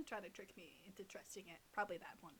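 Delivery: soft whispered aside. Real, not acted. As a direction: breathe the words, no voice.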